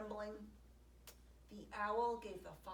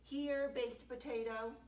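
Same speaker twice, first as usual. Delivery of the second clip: calling; 4 semitones higher, 5 dB louder than usual. Acted. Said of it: "she called for him".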